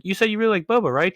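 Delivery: lightly voiced, high friendly praise; imitating Renee. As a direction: Renee cheering on a nervous fan. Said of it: "she's like".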